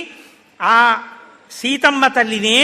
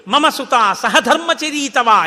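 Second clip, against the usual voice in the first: joyful recitation; 3 dB louder, much slower than usual. Retold or imitated. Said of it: "ఎంత సంతోషమో".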